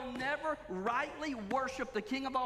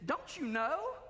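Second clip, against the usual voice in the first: sarcastic question; 5 semitones higher, slower than usual. Retold or imitated. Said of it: "Paul asked him".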